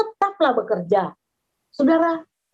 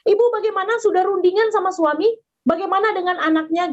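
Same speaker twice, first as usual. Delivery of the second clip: higher, pressing scammer's voice; pushy caller; 5 semitones higher than usual. Retold or imitated. Scam caller pressing the mother for an answer. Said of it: "orang itu telepon lagi".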